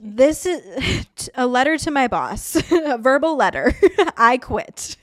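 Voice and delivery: laughing through a mock resignation. Real, not acted. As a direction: giggle while announcing you quit. Jokingly dictating a resignation.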